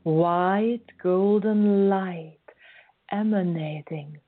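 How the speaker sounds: calm meditation guide with whispered phrase ends; guided meditation. Acted. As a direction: gently lead the listener inward. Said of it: "guide us through a meditation".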